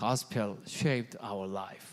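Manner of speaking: deliberately deepened, very low put-on voice. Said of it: "이렇게 딱 목소리 깔고 하는데".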